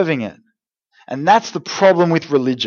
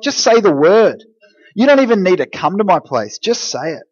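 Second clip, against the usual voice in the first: voiced confident appeal; 4 semitones higher than usual. Centurion telling Jesus no visit is needed, acted confidence. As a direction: act out total trust, easing off at the end.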